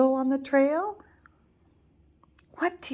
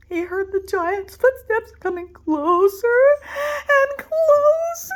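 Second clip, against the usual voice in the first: rising higher and louder, slowing at the end; building suspense; 8 dB louder than usual. A narrator's reading. Narrator builds suspense as footsteps near. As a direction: build the tension step by step.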